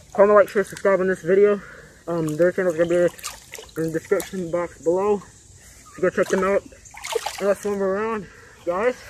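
muffled, talking through a mask; inside a rubber mask. Real, not acted. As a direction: speak from behind a mask. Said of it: "it's very hard to breathe in this mask right now".

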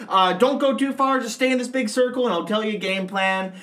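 MC announcing. Retold or imitated. Playing MC addressing the party.

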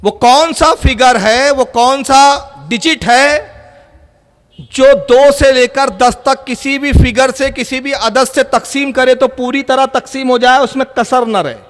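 slow, drawn-out testing question; challenging question. Retold or imitated. Jewish scholar challenging Ali with a riddle, slow and probing. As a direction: draw the riddle out to test him. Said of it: "تو اس نے سوال یہ کیا".

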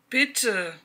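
high, loud beseeching word; imploring plea. A narrator's reading. Martha implores Joanna not to tell, pleading. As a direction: beg her with everything. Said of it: "beschwor Martha sie".

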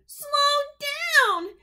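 high, loud call; shouted honk. Acted. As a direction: yell for him to stop. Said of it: "he honked".

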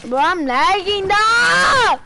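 hyped gamer bro. Real, not acted. Yelling about lag.

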